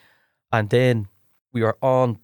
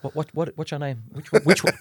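higher, halting, repeated false starts; imitated flustered fumbling; 5 semitones higher than usual. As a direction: fumble for a forgotten name, pitch lifted. Acts out AD not knowing his name.

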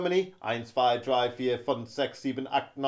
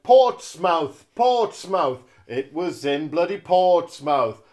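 exasperated; 3 semitones higher, 11 dB louder, slower than usual. Acted. Exasperated map search.

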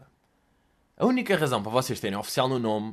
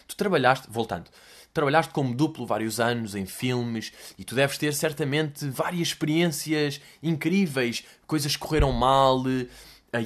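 rambling interviewer tone; 3 semitones lower, 3 dB quieter than usual. Retold or imitated. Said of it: "tom de pergunta longa".

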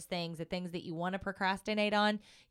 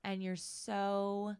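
tearful; 2 semitones lower than usual. Real, not acted. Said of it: "the tears are already coming".

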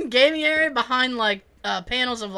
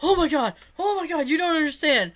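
higher-pitched imitation of a distraught kid; mock distress; 5 semitones higher than usual. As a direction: lament it to an uncaring dad. Kid surfaces with drowned Xbox.

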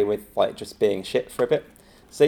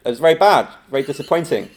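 mock harsh verdict; 3 semitones higher than usual. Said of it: "And he's like".

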